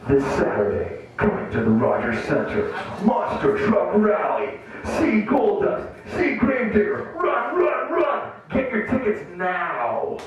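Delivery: over-the-top radio ad read; monster truck ad. Pretend. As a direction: hype it like a monster truck promo. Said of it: "doing this commercial".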